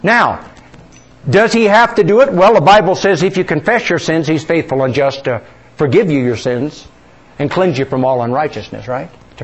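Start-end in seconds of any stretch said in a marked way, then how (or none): none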